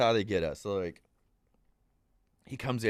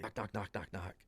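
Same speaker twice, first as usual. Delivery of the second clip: whispered knocking; 2 semitones lower, 12 dB quieter than usual. Retold or imitated. Knocking retold while hiding.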